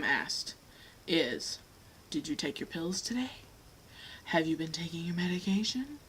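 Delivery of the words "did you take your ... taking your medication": a mimicked question, dropped to a near whisper; hushed quoted question. Retelling what people ask her, a hushed mock question.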